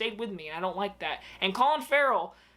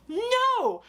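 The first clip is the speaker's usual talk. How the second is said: high, loud outburst of no; a sharp high cry of refusal; emphatic no; 13 semitones higher, 4 dB louder than usual. Real, not acted. Rejecting the ending.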